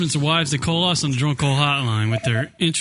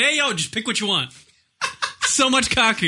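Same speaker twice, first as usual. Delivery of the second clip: laughing; 6 semitones higher than usual. Retold or imitated. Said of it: "like I open up the doors and say".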